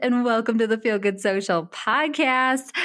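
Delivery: game show host. Real, not acted. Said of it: "I sound like a game show host right now".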